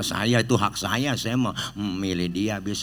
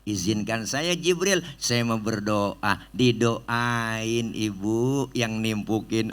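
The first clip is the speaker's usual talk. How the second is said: calm request; slower than usual. Acted. Prophet asks calmly.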